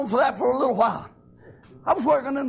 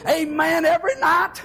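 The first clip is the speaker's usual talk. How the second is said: higher, shouting, voice cracking near the peak; preaching at full force; 3 semitones higher than usual. Acted. Preacher telling the church how God carried him, in full-force preaching. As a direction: climb to a tearful shout of praise.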